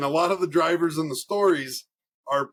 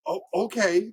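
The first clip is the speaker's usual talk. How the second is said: puzzled, higher-pitched okay; retold hesitant, baffled agreement; confused; 6 semitones higher than usual. Teacher answers an angry dad he can't figure out, confused. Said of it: "he's so confused".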